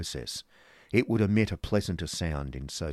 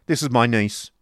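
loud, raised voice; brusque businessman; 6 semitones higher, 10 dB louder than usual. Acted. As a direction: cut in loudly to get down to business. Ralph presents his niece.

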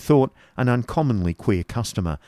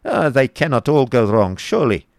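higher, louder Baron voice; optimistic Baron; 4 semitones higher, 4 dB louder than usual. Acted. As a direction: protest hopefully as the Baron. Baron argues back with genius.

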